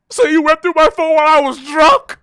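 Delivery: high whispered girlfriend imitation. Imitating girlfriend accusing him, high breathy whisper. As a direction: breathe it, scandalised. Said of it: "Then she goes".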